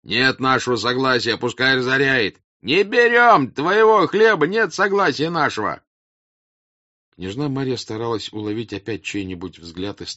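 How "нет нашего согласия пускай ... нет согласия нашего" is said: high, loud, building outcry; drowning-out crowd shouts. Acted. Crowd shouts down the princess, high and loud. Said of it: "голос её заглушали голоса толпы".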